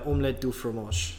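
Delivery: lightly put-on French pronunciation; French accent. Shown as a demonstration. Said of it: "French accent".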